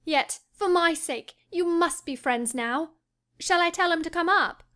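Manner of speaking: eager pleading. Acted. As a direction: coax her husband warmly. Wife pleads happily.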